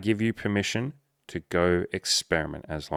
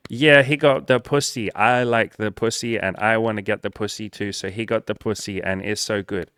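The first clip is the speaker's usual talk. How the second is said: mocking eager viewer; 3 semitones higher, 5 dB louder than usual. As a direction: ham up a drooling, easily excited viewer. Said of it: "I sound like I'm mocking a lot of you".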